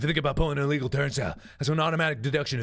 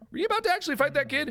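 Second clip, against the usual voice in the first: startled; 13 semitones higher, faster than usual. Acted. Robert startled.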